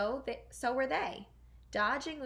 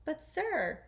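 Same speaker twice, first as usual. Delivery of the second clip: higher, fussy duke protesting; arguing Grand Duke; 5 semitones higher, slower than usual. Acted. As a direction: argue back in a high voice. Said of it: "argued the Grand Duke".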